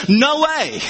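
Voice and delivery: "No way" lifted in pitch; emphatic negation. Shown as a demonstration. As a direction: state "No way" as a firm refusal. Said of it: "it's so emphatic".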